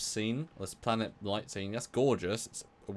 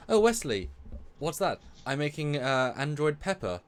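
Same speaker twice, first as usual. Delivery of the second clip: higher-pitched mock character voices; acting out dialogue; 4 semitones higher than usual. Host acts out Wesley's pepper experiment, higher playful dialogue. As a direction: play out a little imagined scene. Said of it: "and he says".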